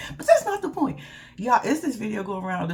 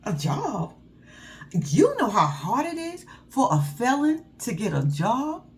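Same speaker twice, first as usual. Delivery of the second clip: mock indignant; slower than usual. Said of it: "She was like".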